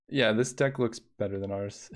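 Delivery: chuckling through the line; amused, self-deprecating remark; laughing admission. Real, not acted. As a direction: concede it with a real laugh. Admiring the viewer's deck.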